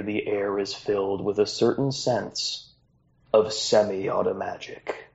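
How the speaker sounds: unhurried storyteller narration opening the episode; game master scene setting. A narrator's reading. Game master opens the first episode, storyteller narration. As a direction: set the scene like the start of an epic.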